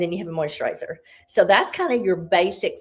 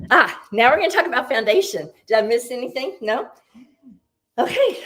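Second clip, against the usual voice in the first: breathless, a bit winded; out of breath; 4 semitones higher, 3 dB louder, faster than usual. Real, not acted. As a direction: talk while catching your breath. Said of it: "I don't know why I'm out of breath".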